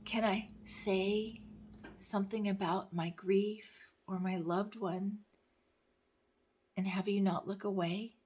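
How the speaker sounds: halting, deliberate recital; poem reading. Acted. Reading about her grief to viewers, halting and measured. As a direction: hold the opening words, pause between phrases.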